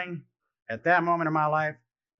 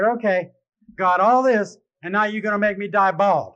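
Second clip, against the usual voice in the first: higher, louder mock yell at God; retold yell; 4 semitones higher, 4 dB louder than usual. Patient losing his hair complains to God, retold yelling. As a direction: holler it up in comic protest. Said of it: "And I yelled at God".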